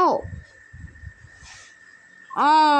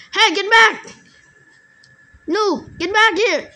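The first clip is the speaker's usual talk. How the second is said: raised, higher-pitched shout; calling out; 6 semitones higher, 3 dB louder than usual. Real, not acted. Gamer to fleeing opponent, get back here, high excited yell. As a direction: call after someone running away. Chasing a player in game.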